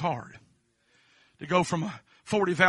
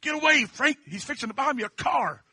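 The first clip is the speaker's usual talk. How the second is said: mock impatient; 5 semitones higher, 4 dB louder than usual. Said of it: "in my mind, I think".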